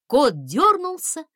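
ordinary delivery, nothing marked

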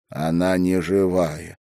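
ordinary delivery, nothing marked

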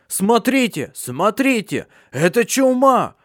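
high frantic cries; panicked. Acted. Fatso shows his plague sores, high panicked cries. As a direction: show them the sores in horror.

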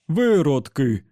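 slow, loud, inhuman robot roar; furious machine voice, dragged out; raging robot. Acted. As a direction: bellow it like a broken machine. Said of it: "закричав робот".

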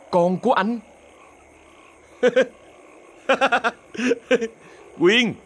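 a hint of cold mocking disbelief; mild contempt. Thành scoffing at Quyên's pregnancy, mildly contemptuous. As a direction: scoff at her lightly. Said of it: "Một nụ cười lạnh lẽo, khinh miệt".

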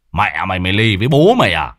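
angry cursing. Acted. Son curses the stubborn cat, angry and quick. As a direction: spit the curse out fast. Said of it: "Anh Độ tức giận chửi thề".

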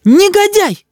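high furious shout; mother screams at her son. A narrator's reading. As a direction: scream the insult at him. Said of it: "закричала мама".

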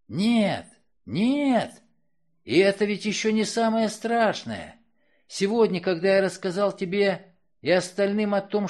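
high, loud, raging outcry; furious accusation. Acted. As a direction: rage at her, voice climbing high. Man's furious accusation of killer.

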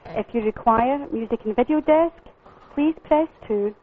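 recorded automated greeting; even, polished menu announcer read; phone menu voice. Real, not acted.

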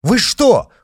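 very high, loud scared cry; panicked cry; frightened shout. A narrator's reading. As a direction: yell helplessly in fear. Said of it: "закричали вдруг рядом".

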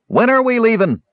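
a jittery bandit who wants out; squeaky, anxious lackey voice; whiny high brigand. A narrator's reading. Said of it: "asked the last brigand in line".

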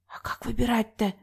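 soft, breathy whispered question; a girl whispering a question to the host. Acted. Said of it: "шепнула Верочка".

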